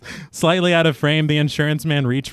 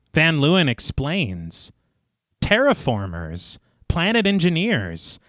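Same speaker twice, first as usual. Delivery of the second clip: story narration; 2 semitones lower than usual. A narrator's reading. Narrator recaps the inquiry scene for listeners, measured storytelling. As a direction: read it like a polished audio storyteller. Reads scripted film recap.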